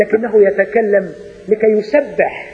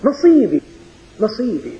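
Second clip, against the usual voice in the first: mock cry. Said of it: "فصرخ في أول كلمة".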